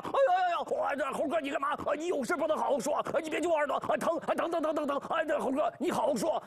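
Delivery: high, squealing pig cries of 疼; yelping in pain. Acted. Bajie yelps as Wukong pulls his ear, high. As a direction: howl as your ear is twisted.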